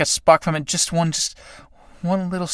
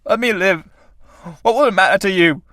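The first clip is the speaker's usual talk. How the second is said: higher, strained pleading; desperate pleading; 6 semitones higher than usual. Acted. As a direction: beg for breath as you are strangled. Tramp begging death, strangled.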